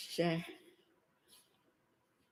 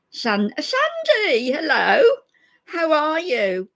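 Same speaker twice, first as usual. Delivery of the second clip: high excited greeting; 8 semitones higher, 5 dB louder, slower than usual. Real, not acted. Greeting a viewer by name.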